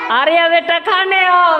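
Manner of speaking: slow, loud call to come and eat. Shown as a demonstration. Teacher acting mom calling child to eat, loud slow call. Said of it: "जोर से, जोर से, आवाज़ में".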